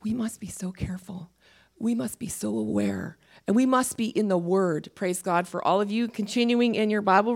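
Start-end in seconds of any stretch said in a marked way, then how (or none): 0.0-3.2 hushed, urgent whisper; a whispered warning to the congregation. Real, not acted. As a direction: breathe the warning softly.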